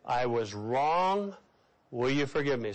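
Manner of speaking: low and very slow, leading the congregation; slow earnest apology to repeat; slow sincere confession. Shown as a demonstration. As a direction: model the words for them to repeat. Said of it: "Say that with me".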